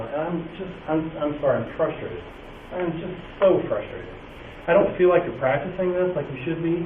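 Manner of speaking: frustrated teacher. Shown as a demonstration. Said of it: "You know, folks".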